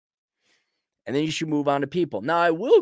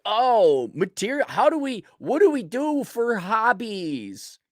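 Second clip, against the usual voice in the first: mock naive questioner; 6 semitones higher than usual. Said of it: "if you're like".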